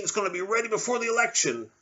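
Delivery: high boastful Trump voice; Trump impression. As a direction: promise it like a salesman. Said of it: "Trump over there with the vaccine".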